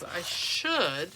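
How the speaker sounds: should pressed a little harder; stress on should. Shown as a demonstration. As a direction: give should a firm, doubtful push. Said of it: "and I stress the word should".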